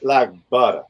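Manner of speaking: light Southern accent, dropped final r; Georgia drawl. Real, not acted. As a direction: let a touch of Georgia accent slip in. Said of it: "That sounds kinda Georgia".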